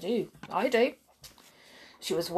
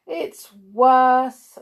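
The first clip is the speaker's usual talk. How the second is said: louder, higher complaint; unhappy; 5 semitones higher, 10 dB louder than usual. A narrator's reading. Mister Happy complains about Mister Tickle, unhappily. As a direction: stress the misery, mildly acted. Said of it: "said Mister Happy unhappily".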